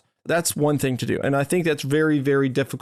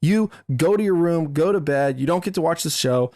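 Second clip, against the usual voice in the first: higher-pitched exasperated scolding, retold; retold angry yelling; 4 semitones higher than usual. Dad retelling how he snapped at his son over the credits, mock angry scolding. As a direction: replay losing your cool at your kid. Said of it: "I lost my cool and yelling at".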